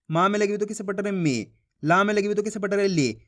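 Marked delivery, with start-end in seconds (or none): 1.1-1.5 मी said short and low, the vowel clipped; short i, not drawn out. Shown as a demonstration. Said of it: "ज़्यादा खींच के नहीं पढ़ना". 2.9-3.2 ली said short and low, the vowel clipped; short i, not drawn out. Shown as a demonstration. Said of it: "ज़्यादा खींच के नहीं पढ़ना".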